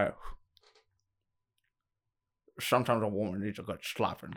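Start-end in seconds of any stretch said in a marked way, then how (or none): 2.6-4.3 a lightly voiced Sean Connery line; Sean Connery impression. Showing off his Sean Connery impression to a friend. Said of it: "This is my Sean Connery".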